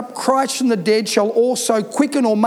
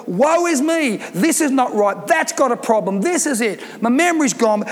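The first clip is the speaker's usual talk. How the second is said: a hint of whiny self-pity; lightly mock the moaning complainer; mock woe. Shown as a demonstration. Preacher mimics a moaning believer, lightly whiny. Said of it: "As opposed to".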